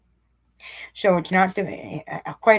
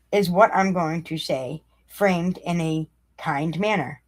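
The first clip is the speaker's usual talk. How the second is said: slow deliberate reading; slower than usual. Shown as a demonstration. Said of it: "One more time".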